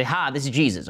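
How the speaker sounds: mock Southern-accented Jesus; a hint of Southern twang. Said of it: "why he has a Southern accent".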